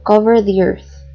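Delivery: one smooth breath, hit cover; stress on cover. Shown as a demonstration. Teacher demonstrating the phrase, stress on cover. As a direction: COVER stressed, the earth blended after it. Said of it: "So it's like this".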